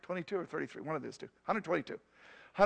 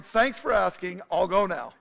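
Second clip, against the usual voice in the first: yelling out; 2 semitones higher, 7 dB louder than usual. Retold or imitated. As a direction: shout it so the back row hears. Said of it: "I yell out so everybody can hear".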